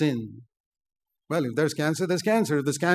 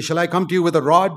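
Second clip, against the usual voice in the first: stern fatherly challenge; 3 semitones higher, 7 dB louder than usual. Acted. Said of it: "so he could speak like that".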